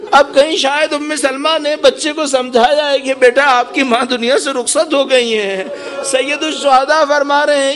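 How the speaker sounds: sustained, elevated sermon lament; impassioned lament preaching. Real, not acted. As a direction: tell the farewell as a mourning preacher.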